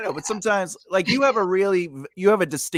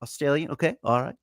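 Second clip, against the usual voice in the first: casual, light Australian accent; 3 dB quieter, faster than usual. Shown as a demonstration. Voice actor demonstrating accents on a chat, Australian accent. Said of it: "I got the Australian".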